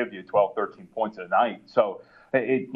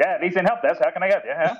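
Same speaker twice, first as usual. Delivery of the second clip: brassy 1920s phone operator; old-timey 1920s voice; 7 semitones higher than usual. Retold or imitated. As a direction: answer the phone like it's the 1920s. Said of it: "like, an old-timey nineteen twenties voice".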